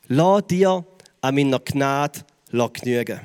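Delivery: tiefer, langsam, eindringlich; Vers langsam wiederholt. Shown as a demonstration. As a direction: den Vers wie ein Nachklang sprechen. (ruhige, tiefe Wiederholung des Verses)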